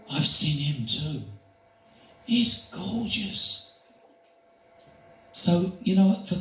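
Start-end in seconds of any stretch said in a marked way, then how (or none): 0.1-3.8 put-on adoring old lady. Elderly lady voiced in story.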